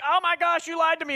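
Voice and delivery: high-pitched, put-on outrage; imitating an angry girlfriend; mock indignation. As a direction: accuse him, playfully mad. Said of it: "She gets mad".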